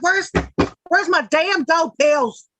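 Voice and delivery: high, drawn-out hammed-up demand; mock asshole demand. Streamer hustling listeners for gold pills, mock asshole demand. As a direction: playfully badger them like an asshole. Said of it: "If I'm an asshole to y'all".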